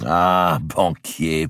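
loud, beaming exclamation; joyful nobleman hailing his banker; delighted cry. A narrator's reading. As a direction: call him out with a big grin. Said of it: "s'écria d'Artois avec un grand sourire".

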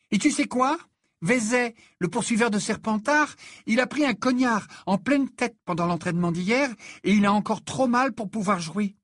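put-on high, eager girl's voice; lively young teammate, excited by the news; cheerful girl. A narrator's reading. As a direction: share good news brightly, pitched high.

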